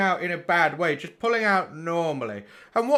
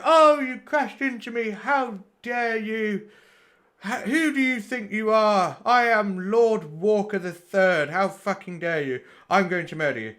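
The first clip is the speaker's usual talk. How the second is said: mock outraged road-rager; 4 semitones higher than usual.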